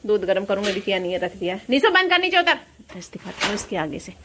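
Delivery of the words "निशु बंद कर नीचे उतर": calling Nishu. Real, not acted.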